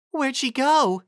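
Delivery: high, loud demand; sharp, worried demand from a pony. Acted. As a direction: snap the question out urgently. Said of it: "Carrot Top demanded".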